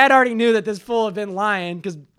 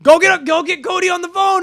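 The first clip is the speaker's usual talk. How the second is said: high, loud imitation of an angry father; mock dad ordering; 9 semitones higher, 6 dB louder than usual. Son imitates dad sending for the phone, loud command. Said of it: "He's all".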